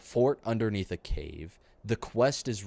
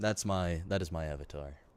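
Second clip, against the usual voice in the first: normal talking voice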